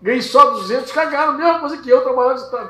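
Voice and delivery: high, loud worker's complaint; acted aggrieved outcry; indignant protest. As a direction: protest loudly like a cheated worker. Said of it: "daquele grito de "é injusto".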